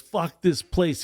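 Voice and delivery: high, drawn-out mock holler; stretched-out imitation shout, only half volume; imitated yell. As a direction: mimic a kid yelling, slow and high. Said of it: "this kid yells out to me".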